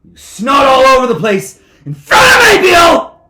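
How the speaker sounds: high screamed reprimand; furious berating. Acted. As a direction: explode at him, climbing into a scream. Judge berates Bill.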